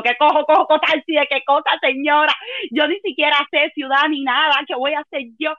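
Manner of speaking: a frantic, rising plea; panicked high reply. Retold or imitated. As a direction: sound lost and desperate.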